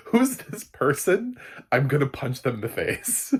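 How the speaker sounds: loud, high, slowed outraged rant; mock outrage. Laughing rant at the person who recommended the show. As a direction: act out the fury at whoever recommended it. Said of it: "It's like".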